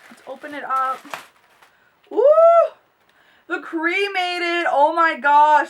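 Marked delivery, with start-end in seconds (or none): 2.1-5.7 excited. Real, not acted. Excited reveal of palette.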